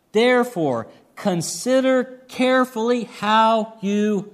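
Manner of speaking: measured, solemn Bible reading; scripture reading. Acted. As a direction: read the Gospel passage aloud to the congregation. Pastor reads the parable aloud.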